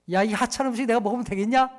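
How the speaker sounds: mock-rude scoff at the meal; rude husband at the table. Pastor mocks a husband scorning his wife's dinner, rude scoff. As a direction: scorn the wife's cooking, lightly. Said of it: "그때 여러분 어떻게 얘기하십니까".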